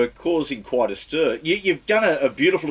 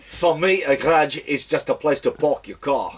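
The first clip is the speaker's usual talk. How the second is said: slow try at South African line; South African accent; 2 semitones higher, slower than usual. Shown as a demonstration. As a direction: roll the R's, South African style. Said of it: "little rolling of the R's".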